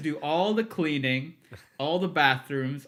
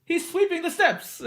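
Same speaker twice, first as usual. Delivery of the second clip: high-pitched, louder attempt at a French accent; 4 dB louder than usual. French manager spotting intern on camera footage, French accent. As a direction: exclaim in a put-on French accent. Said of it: "I'm gonna try to do a French accent".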